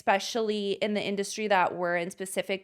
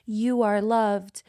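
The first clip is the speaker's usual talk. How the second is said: a hint of a calm instructor, then rushing the blah blahs; imitating the instructor; 2 semitones higher, 4 dB louder than usual. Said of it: "the instructor just starts saying things to you like".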